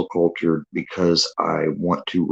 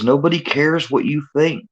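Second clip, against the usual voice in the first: dismissive quote; 10 semitones higher than usual. Retold or imitated. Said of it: "his response was".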